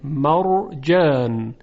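مرجان slowly, with a full, heavy r; heavy rolled ر in مرجان. Shown as a demonstration. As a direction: draw out مرجان and thicken the ر.

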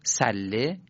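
"صله" with a thin, plain S; light front S on "صله"; light sin. Shown as a demonstration. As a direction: say "صله" with an ordinary S, not throaty. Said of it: "با سین".

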